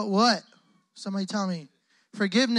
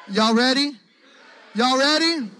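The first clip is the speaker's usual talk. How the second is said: raised, louder call to the crowd; rallying shout; 4 semitones higher, 6 dB louder than usual. Real, not acted. Preacher calling to the youth crowd for their response, rallying shout. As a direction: fire up the room with a ringing shout.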